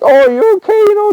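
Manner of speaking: put-on high, bright-toned breezy question to a fallen kid; light laugh-it-off check. Dad to fallen daughter, playing it down breezily. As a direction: keep it light so she doesn't freak out. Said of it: "tried to laugh it off".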